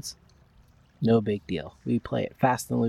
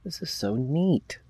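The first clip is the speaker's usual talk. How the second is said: cave echo; 5 semitones higher, slower than usual. Real, not acted. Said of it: "It sounds like I'm in a cave".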